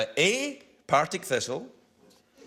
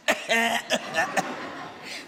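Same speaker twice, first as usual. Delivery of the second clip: higher cough as a comic come-on; mock flirtatious cough; 5 semitones higher than usual. Host showing elevator courtship, flirtatious mock cough. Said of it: "coughing on someone is a sign of courtship".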